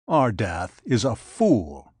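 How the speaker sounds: slow, lightly voiced rumble of a giant; a hint of a giant's rumble, slow and weighty; rumbling. Giant scoffing at the absent Ardath, slow mild rumble. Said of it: "he rumbled".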